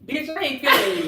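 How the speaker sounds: sassy retort. Shown as a demonstration. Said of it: "you say it".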